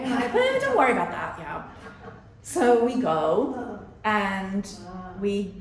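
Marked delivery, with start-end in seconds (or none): 0.4-1.6 carefree mom brushing off a worry; breezy brush-off. Retold or imitated. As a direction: wave it away lightly and fast. Brushing off her son's worry.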